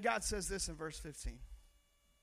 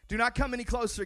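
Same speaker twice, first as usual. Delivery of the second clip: commanding God voice; 5 semitones higher, 10 dB louder than usual. Acted.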